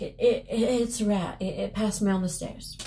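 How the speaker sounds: mildly nervous stammer; shaking tone. Acted. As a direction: stammer out an uneasy excuse. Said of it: "in shaking tone".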